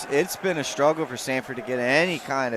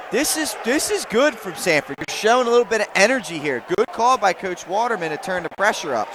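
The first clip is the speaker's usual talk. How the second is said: excited praise; 3 semitones higher than usual. Real, not acted. Analyst reacting to defensive pressure.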